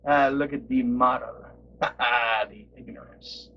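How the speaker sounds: low, breathy whispered mock of his catchphrase; imitating the Model. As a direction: purr the product name like a cologne ad. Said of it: "He was Mister Model".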